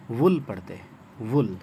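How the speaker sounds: वुल with a clear opening w before the vowel; w sound first. Shown as a demonstration. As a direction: begin वुल on w, not on the vowel. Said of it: "व का sound पहले आएगा".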